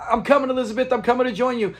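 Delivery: high, hammed-up call to heaven; Fred's mock dying cry. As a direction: imitate a melodramatic fake heart attack. Fred's classic dying line, acted out.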